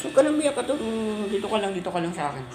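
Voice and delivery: comforting. Real, not acted. Telling crying Kato to stay close, comforting. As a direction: start high, then soften and hurry soothingly.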